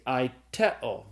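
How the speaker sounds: aiteo slowly, stressed on TE; stress on middle syllable. Shown as a demonstration. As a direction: say "aiteo" as ai-TE-o, drawn out. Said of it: "accent the syllable with the epsilon".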